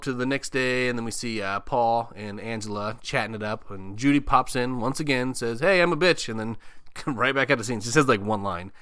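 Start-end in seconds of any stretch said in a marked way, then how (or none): 5.6-6.3 high, loud caricature; hammed-up self-introduction; mock bitchy announcement. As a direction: pop in with a brash high "hey". Caricature of Judy popping in.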